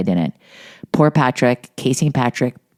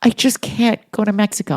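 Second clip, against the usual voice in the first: high, imitated tearful wail; hammed-up tearful refusal; mock hysterical crying; 9 semitones higher than usual. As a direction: imitate someone too distraught to go on. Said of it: "She's hysterical crying".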